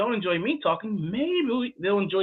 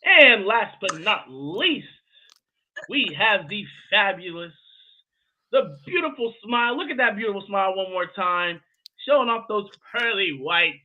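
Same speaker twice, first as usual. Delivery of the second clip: hype introduction. Pretend. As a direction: build up a grand guest intro. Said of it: "trying to bring the energy".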